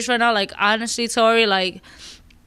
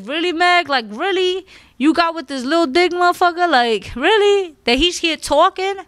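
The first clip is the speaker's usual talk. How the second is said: incredulous disbelief; 5 semitones higher than usual. Pretend. Speaker imagines confronting Meg, higher incredulous disbelief. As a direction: ask Meg like you can't believe her choice. Because I'd be like.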